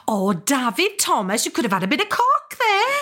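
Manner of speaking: high, bright, fast Welsh sing-song; Myfanwy catchphrase. Retold or imitated. Myfanwy greets David Thomas, high sing-song Welsh. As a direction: chirp it, terribly positive about everything. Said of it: "Her catchphrase was".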